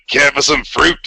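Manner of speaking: imitated Australian accent; thick Australian accent. Fan recalls Wolverine skewering fruit, in an Australian accent. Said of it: "in this thick Australian accent".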